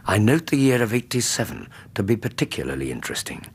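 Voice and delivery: measured storytelling narration building atmosphere; story narration. A narrator's reading. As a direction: narrate it like a Victorian memoir read by the fire.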